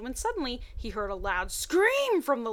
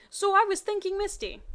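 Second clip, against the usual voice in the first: coy lead-in; 10 semitones higher, 5 dB louder than usual. Acted. Ash coyly opening.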